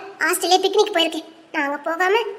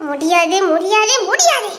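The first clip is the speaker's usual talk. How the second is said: sulky refusal; 4 dB louder, slower than usual. Acted. Child refusing to smile, sulking.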